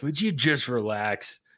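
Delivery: rough, mean, gravelly rasp. Quoting what Stompy always says when the speaker worries about time, imitating Stompy's mean gravelly voice. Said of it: "he says it in that, like, mean, gravelly voice".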